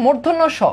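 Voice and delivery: মূর্ধন্য স sounded in full as "mur-dhon-no sho"; correct pronunciation. Shown as a demonstration. Teacher shows students this letter's name, careful full pronunciation. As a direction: give মূর্ধন্য স every syllable, ending on "sho". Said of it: "এটার উচ্চারণ হচ্ছে".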